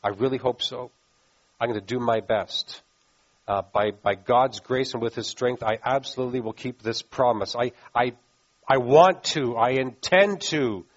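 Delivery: mildly hesitant, low-key promise; hedging promise. Acted. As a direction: stumble through a well-meant promise. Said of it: "when we promise, we say things like".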